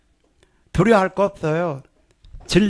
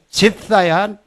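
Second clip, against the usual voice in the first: command; slower than usual. Shown as a demonstration. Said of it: "명령하세요".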